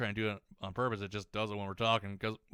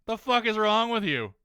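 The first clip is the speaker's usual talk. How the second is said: imitating parents' shocked yell, higher and louder; mock outraged yell; 11 semitones higher, 7 dB louder than usual. Stepmom and dad react to his weirdness, with a mock outraged yell. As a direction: play the stepmom and dad yelling in disbelief. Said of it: "and they're like".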